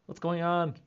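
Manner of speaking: high, sudden alarmed cry; jolted awake by barking; startled yelp. Retold or imitated. Woken by the barking dog, startled and alarmed. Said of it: "I'm like".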